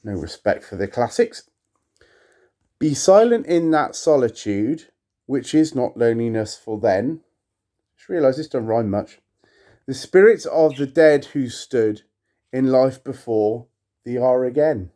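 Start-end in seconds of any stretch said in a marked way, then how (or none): 2.8-7.2 measured, solemn recitation; poem reading. Acted. To viewers, reading Poe aloud, solemn poetic recitation. 9.9-14.9 measured, solemn recitation; poem reading. Acted. To viewers, reading Poe aloud, solemn poetic recitation.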